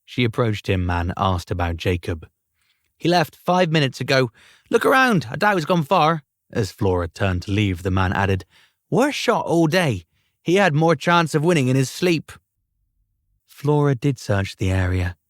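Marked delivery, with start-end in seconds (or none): 3.0-6.2 lightly voiced higher man; a hint of a helpful stranger; man's voice. Man answers Flora at the fair. 8.9-12.3 lightly voiced higher man; a hint of a helpful stranger; man's voice. Same man adds a remark.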